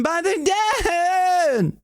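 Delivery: slow piercing high cry; high cry technique. Shown as a demonstration. Coach demonstrating the singer's high cry technique. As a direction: break into a high sung wail. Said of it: "Play around with your break".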